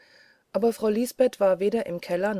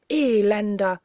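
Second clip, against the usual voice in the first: stern rebuke; 3 semitones higher, 6 dB louder than usual. A narrator's reading. Spirit rebukes the murderer Peter.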